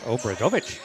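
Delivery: mock Swedish accent on Obradovic. Shown as a demonstration. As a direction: say Obradovic like a playful Swede. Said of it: "That's my, uh, best Swedish accent".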